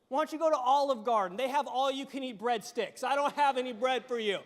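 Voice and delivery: loud, fast mock suggestion; sassy brush-off; sarcastic widow. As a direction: snap it at him like a fed-up widow. Widow mocking the prophet.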